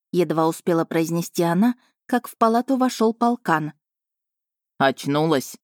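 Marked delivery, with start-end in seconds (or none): 4.8-5.6 lightly lower, weary man's voice; a worn-out tracker; tired werewolf. A narrator's reading. Weary tracker greeting princess, lightly lower tired voice. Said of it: "уставший голос ищейки".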